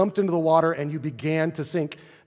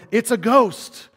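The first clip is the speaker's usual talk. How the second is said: high, loud mock cry of alarm; retold alarm; 7 semitones higher, 6 dB louder, slower than usual. Disciples seeing a ghost, retold alarm. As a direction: stretch it out, higher and louder, as if startled.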